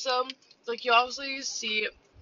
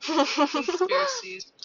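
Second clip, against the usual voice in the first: high, slow mysterious drawl; dramatic; 8 semitones higher, much slower than usual. Real, not acted. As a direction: draw it out ominously. Dramatic topic suggestion.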